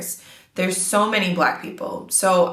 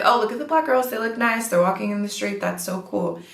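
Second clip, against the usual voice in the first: a light, higher, cheery imitation of the admiring older woman; friendly admiring onlooker; 5 semitones higher than usual. Imitating an older Spanish woman admiring the Black girls, bright. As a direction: lightly voice a friendly old lady, pleased. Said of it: "It's just like".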